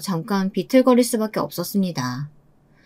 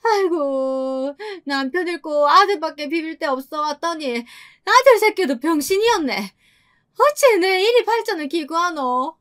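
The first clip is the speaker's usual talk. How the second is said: tearful wailing; 8 semitones higher than usual.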